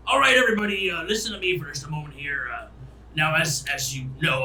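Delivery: lightly voiced captain addressing passengers; ship captain.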